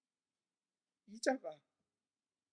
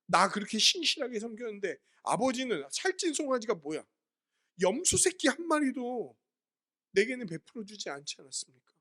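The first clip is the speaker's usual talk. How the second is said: retold angry complaint; 5 semitones higher than usual. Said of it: "분노해요".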